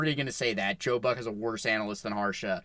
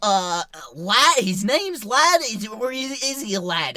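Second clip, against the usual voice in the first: put-on Danny Morrison New Zealand accent; 10 semitones higher, 5 dB louder than usual. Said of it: "Such a good accent".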